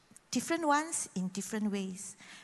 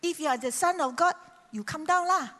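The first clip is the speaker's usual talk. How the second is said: higher, taunting crowd voice; mock jeering; 5 semitones higher than usual. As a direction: sneer it up at the man on the cross. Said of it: "they were jeering at him".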